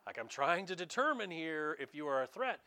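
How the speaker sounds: half-breathed, irritated governor; mildly voiced annoyed Roman governor; imagined Pilate. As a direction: brush off the non-answer, exasperated. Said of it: "you can imagine Pilate going".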